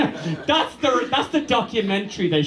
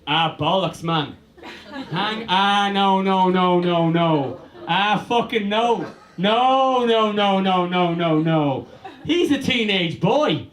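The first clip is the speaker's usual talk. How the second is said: mock despair at the screen, half laughing; exasperated groan; slower than usual. Comedian watching Twilight, laughing exasperated protest. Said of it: "I went".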